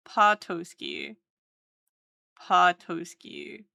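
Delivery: Patoski slow, pa-TOE-ski; slowly sounding Patoski. Shown as a demonstration. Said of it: "T O S key".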